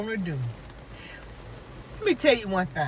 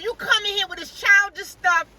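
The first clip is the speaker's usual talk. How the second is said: high, louder mock scolding of a childish lawyer; imitated hollering; 8 semitones higher, 4 dB louder than usual. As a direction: play the judge scolding, pitched up and raised. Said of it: "She was hollering at her".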